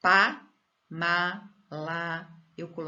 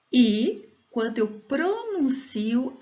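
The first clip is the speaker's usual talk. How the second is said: PRONUNCIO drawn out, higher pitch; stressed with more force; 8 semitones higher, 5 dB louder, slower than usual. Shown as a demonstration. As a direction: lean hard and slowly on "pronuncio". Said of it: "mais força".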